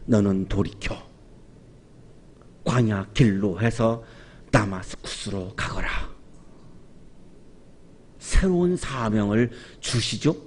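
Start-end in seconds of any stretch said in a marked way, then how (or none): 0.0-5.9 낮고 느리게, 끊어 가며; 나직하고 차분하게 명하듯; 조용한 주님의 음성. Acted. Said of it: "조용한 소리로 말씀하십니다". (낮고 조용하게 말씀하시는 소리)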